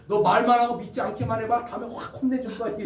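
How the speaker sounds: 1 mock threat. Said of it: "협박으로 전도하는 겁니다".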